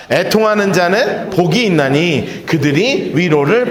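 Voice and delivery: 애통하는 자는 복이 있나니 read slowly and low in unison; slow reading together. Shown as a demonstration. Pastor leading the church in reading the verse, slow and low. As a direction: lead the congregation through 애통하는 자는 복이, slow. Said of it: "시작".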